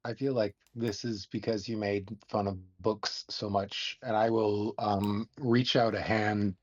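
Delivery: gravelly wizard voice. Acted. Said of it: "I kinda like that gravelly voice for your character".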